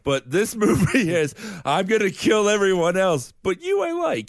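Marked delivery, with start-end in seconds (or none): 1.6-4.3 mock Batman voice. Voicing Batman movie's logic.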